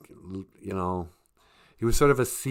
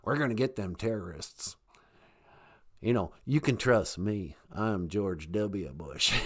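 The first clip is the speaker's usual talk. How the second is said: George W. Bush impression; 2 semitones lower, 4 dB quieter than usual. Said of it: "So he was like this".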